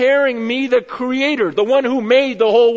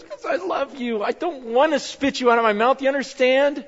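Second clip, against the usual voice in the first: loving God. Retold or imitated. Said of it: "He goes".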